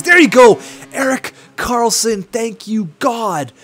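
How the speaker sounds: loud, high goal celebration; celebrating shout. Real, not acted. Gamer cheering his team's late goal, loud and high. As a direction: yell it out as the goal goes in.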